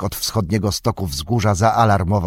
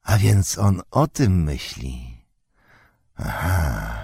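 sly goblin; 3 semitones lower, slower than usual. A narrator's reading. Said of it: "syknął cichutko goblin".

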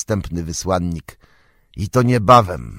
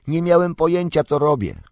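a hint of a higher young hobbit voice; Pippin, lightly voiced; 7 semitones higher, faster than usual. A narrator's reading. Pippin to Gandalf, lightly voiced regretful hobbit. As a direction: lift into young Pippin, rueful.

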